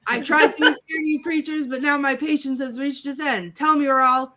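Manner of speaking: lightly voiced threatening villain; theatrical mock menace; villain threat. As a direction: threaten like a cartoon tyrant losing patience.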